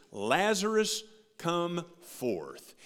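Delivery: mock call of Jesus, Lazarus loud and high; commanding retold cry. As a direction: call the dead man out of the tomb. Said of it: "he cried out in a loud voice".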